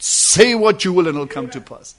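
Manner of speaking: fuller and firmer, declaring it; the prophet, lifted up, declares the word. Acted. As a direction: proclaim it with the anointing upon you. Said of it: "anointing came down upon the prophet and raised him up and said".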